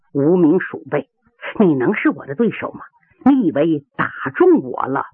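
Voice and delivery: low, contained contempt; gritted-teeth menace. Acted. Yu Hualong questioning his fallen foe, low menace through gritted teeth. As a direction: sneer through gritted teeth at a beaten rival. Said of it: "咬牙切齿地问".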